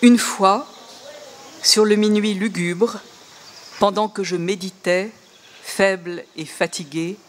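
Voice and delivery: measured reading of Baudelaire's French; poem reading. Shown as a demonstration. Lecturer reading Baudelaire's translation to the audience, measured. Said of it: "Alors, un bout de Baudelaire".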